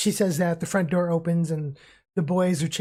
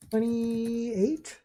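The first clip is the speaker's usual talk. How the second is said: testy; 5 semitones higher, slower than usual. Acted. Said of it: "she kinda says".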